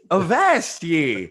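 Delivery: slow growly pirate Avast; old sailor. Pretend. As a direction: drag it out like an old sea dog. Pirate talk, slowed.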